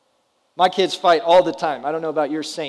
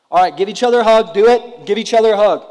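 dad orders a hug; 3 semitones higher, 6 dB louder than usual. Retold or imitated.

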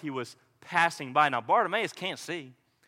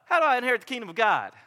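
higher-pitched, overly casual greeting; buddy-buddy; 5 semitones higher than usual. Acted. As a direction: address the teacher like a chum. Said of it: "just buddy, buddy".

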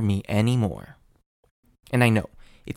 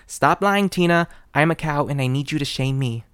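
mock pleading outburst; 4 semitones higher than usual. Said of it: "It's like".

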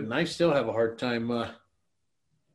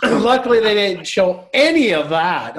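laughing; 8 semitones higher, 9 dB louder, slower than usual. Real, not acted. Laughing relief.

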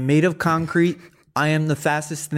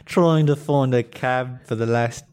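bad Australian accent. Guest posing as Tom Holland in a bad Australian accent. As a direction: play a clumsy fake Australian. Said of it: "your accent is bloody ridiculous".

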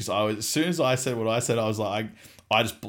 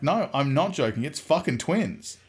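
raised pitch, mock-desperate; exasperated insistence; 5 semitones higher than usual. Son convincing his mum, exasperated. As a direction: insist it, stretching the last words higher.

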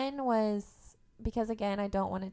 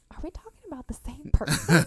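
louder, higher disbelief; incredulous; 4 semitones higher, 8 dB louder than usual. Retold or imitated. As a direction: ask it in mock disbelief. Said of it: "And I'm like".

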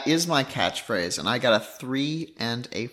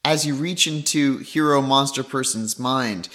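normal talking voice

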